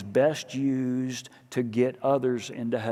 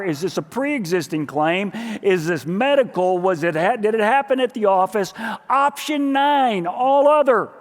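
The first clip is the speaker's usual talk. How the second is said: louder mock automated menu listing options; phone menu voice; 3 semitones higher, 5 dB louder than usual. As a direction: rattle off the options like a phone tree.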